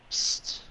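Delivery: sharp little attention-getting hiss; secretive psst. Retold or imitated. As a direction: hiss it to get a friend's attention. Imitates a hissed attention call.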